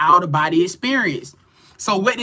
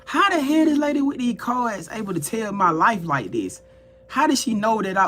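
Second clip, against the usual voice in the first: slightly raised, incredulous questioning; retold crashing out; 4 semitones higher than usual. Questioning how the card reader knows, retold disbelief. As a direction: act out mild bafflement at being read. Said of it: "I'm crashing out 'cause".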